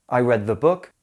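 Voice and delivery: "the" said "thuh" before "book"; weak schwa in "the" leading to "book"; "thuh" before consonant. Shown as a demonstration. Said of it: "listen ... so you can hear the difference".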